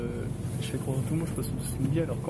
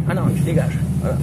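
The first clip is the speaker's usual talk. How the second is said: rough bouncer voice; 8 dB louder, faster than usual. Retold or imitated. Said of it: "Pourquoi ils parlent comme ça?".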